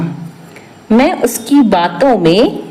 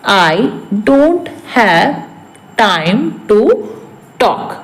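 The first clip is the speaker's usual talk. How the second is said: broken up with long pauses; word-by-word repeat; much slower than usual. Shown as a demonstration. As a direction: dictate it bit by bit to learners. (एक-एक शब्द, रुक-रुक कर)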